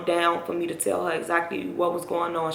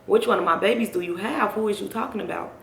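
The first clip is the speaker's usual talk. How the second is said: insistent mama; 3 semitones higher than usual. Retold or imitated. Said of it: "She just steady asking".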